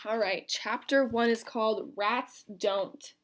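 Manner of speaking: put-on reading a chapter book aloud to kids; lively read-aloud voice for a class; story reading. Teacher reading a novel to students, storybook narration.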